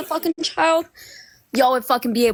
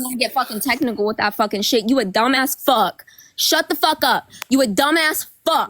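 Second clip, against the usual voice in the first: real heated cursing, hitting each insult; angry. Real, not acted. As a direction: hurl the insults to end the argument. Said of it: "Why are you so angry?".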